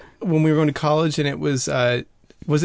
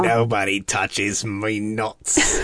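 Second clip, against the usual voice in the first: put-on English accent; 5 semitones lower, slower than usual. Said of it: "The English, um, accent is very deceiving".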